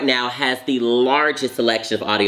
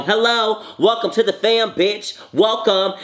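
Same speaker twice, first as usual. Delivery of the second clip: sassy high greeting; 9 semitones higher than usual. Acted.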